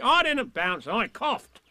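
loud, indignant protest; a tiger insisting it was a cough; cross. A narrator's reading. Tigger protests to Eeyore, cross and loud. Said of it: "said Tigger crossly".

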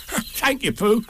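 very high, giggly tiger thanks; Tigger. A narrator's reading. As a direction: thank with bouncy chuckles. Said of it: "said Tigger".

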